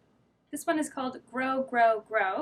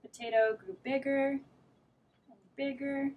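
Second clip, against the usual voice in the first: lively read-aloud storytelling; reading to children. A narrator's reading. Teacher reading a picture book to children. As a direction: read it like story time for little kids.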